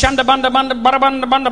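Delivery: rapid babble of nonsense syllables; pretend tongues. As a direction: reel off fake speaking in tongues. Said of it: "people that just pretend they do".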